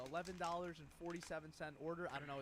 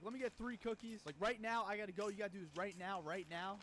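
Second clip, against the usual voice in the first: rude customer; 2 semitones higher than usual. Retold or imitated. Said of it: "huge attitude".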